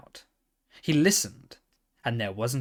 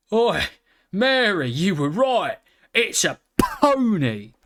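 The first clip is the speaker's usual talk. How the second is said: loud, higher calling out; 8 semitones higher, 6 dB louder than usual. Acted. Man calls to Mary about the pony, loud and higher. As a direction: shout back to the caravan.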